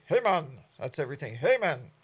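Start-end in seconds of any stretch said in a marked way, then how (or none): 0.0-0.6 put-on louder, light Jamaican accent on Hey, man. Vlogger mimics the Jamaican greeting, lightly accented. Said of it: "that's what they say". 1.3-1.9 put-on louder, light Jamaican accent on Hey, man. Vlogger mimics the Jamaican greeting, lightly accented. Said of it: "that's what they say".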